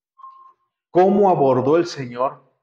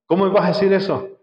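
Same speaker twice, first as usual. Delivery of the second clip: higher, pleading objection to the master; a hurt follower pushing back on Jesus; protesting disciple; 6 semitones higher than usual. Acted. Disciple protesting to the Lord, a higher indignant plea. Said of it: "Imagínense".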